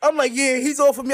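high, laughing gloat; laughing relief. Retold or imitated. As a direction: rookie gloating the coach left him alone, laughing.

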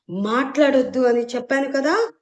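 shouting down the aunt, enraged; angry shout. Acted. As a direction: snap at her to shut up. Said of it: "గట్టిగా అరిచాడు విహాన్".

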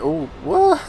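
very high, loud startled squeal; squealed what. Real, not acted. Gamer startled by the twitching creature, squealing high. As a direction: shriek it in surprise.

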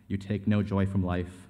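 forceful, accusing script read; hard-driving acted argument; heated confrontation. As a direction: tear into them in a tense showdown. Acted graveside confrontation in script reading.

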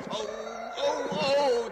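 startled, rising oh oh; frightened cry. Acted. Jimmy hears the eerie noise in the dark, frightened.

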